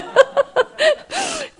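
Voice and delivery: high laughter, trailing off; long high laugh. Real, not acted. Laughs at the story of the husband leaving. (길고 높은 웃음)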